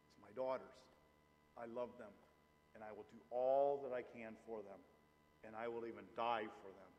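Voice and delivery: low, hushed fatherly devotion; tender sincerity. Real, not acted. Father on dying for his daughters, tender.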